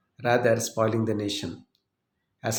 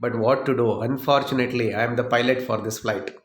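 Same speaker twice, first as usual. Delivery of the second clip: serious. Acted. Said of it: "became serious and said".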